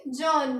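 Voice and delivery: जॉन said as French jaune, long o; French pronunciation of जॉन. Shown as a demonstration. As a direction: say जॉन with a rounded vowel, clear final n. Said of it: "क्या बोलेंगे?".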